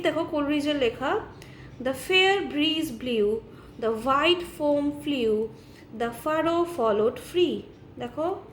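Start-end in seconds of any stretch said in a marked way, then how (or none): 1.8-7.6 slow, deliberate verse reading; poem recitation. Acted. Teacher quoting Coleridge as an example of alliteration, slow recitation. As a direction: recite line by line, very measured.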